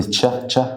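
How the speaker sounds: "تشه" as a short phonics CH; CH sound alone. Shown as a demonstration. Teacher isolating the first sound of chair, short CH. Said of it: "صوت الشه".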